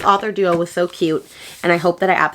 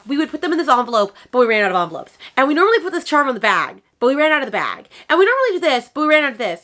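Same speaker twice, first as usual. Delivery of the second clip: raised, quick, mock-flustered rattle of excuses; apologetic authors; 6 semitones higher, much faster than usual. Authors apologising to a customer for running out, higher imitated voice. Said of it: "they were like".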